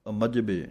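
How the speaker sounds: ਅਮਜਬੇ with the ਅ attached to ਮਜਬੇ; ਅਮਜਬੇ, not ਮਜਬੇ; joined aira. Shown as a demonstration. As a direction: say ਅਮਜਬੇ as one word, ਅ bound to ਮਜਬੇ. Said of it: "ਐੜਾ ਸੰਬੰਧਕ ਕਰਕੇ ਬੋਲਣਾ".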